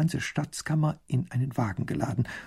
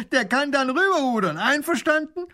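high, loud gleeful robber; hammed-up bandit voice; 14 semitones higher, 6 dB louder than usual. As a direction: crow it across the river like a cocky robber.

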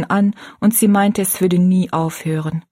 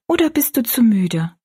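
whispered; 5 semitones higher than usual. A narrator's reading. Child offers at night.

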